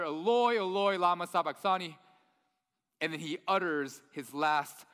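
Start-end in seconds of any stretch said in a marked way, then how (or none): 0.0-2.0 crying out. Acted. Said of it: "Jesus cries out to his Father".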